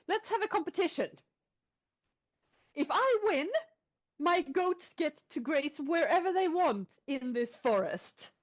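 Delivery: put-on a small boy puffing himself up to a giant; brave little boy. Goat boy proposing a contest to the troll, high and eager.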